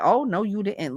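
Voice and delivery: mock nasally Staten Island accent. Shown as a demonstration. Demonstrating how Staten Islanders talk, nasally Staten Island accent. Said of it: "like that kinda talk. Like, it's more nasally".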